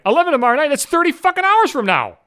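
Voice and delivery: high, loud, incredulous yelp; shocked at the repair estimate; outraged disbelief. Real, not acted. Reading the power company's estimate, outraged disbelief.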